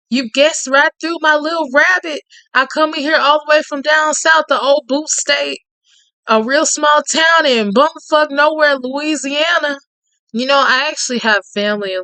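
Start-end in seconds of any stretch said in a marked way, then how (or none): 0.1-9.8 lightly voiced Cajun man. Reading Tate's lines to the listener in a lightly voiced Cajun charmer's tone.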